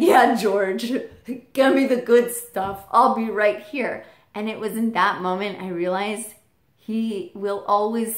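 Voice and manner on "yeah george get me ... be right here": voicing dad. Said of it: "he said".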